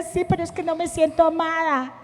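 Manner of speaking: hint of retold crying; mock tearful reply. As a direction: act out her retold weeping lightly. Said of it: "Y yo lloraba".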